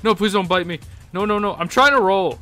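panicked yelling while being bitten; real panic. Real, not acted. Gamer yelling at the bear biting him, in panic. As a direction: scramble and yelp in real alarm as it bites.

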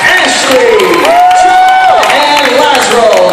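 booming hype announcer; rally speech. Acted. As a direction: pump up the crowd, shouting. Game show host hypes crowd.

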